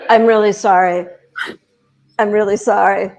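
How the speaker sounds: measured, mildly apologetic imitation; understated mock-polite sorry; polite apology. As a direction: imitate a courteous apology, lightly done. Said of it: "David was being so polite".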